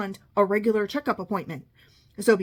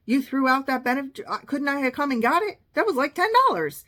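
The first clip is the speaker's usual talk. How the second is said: outraged disbelief; 4 semitones higher than usual. Retold or imitated. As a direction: build from irritated to indignant squeal. Outraged mom arguing with nurse.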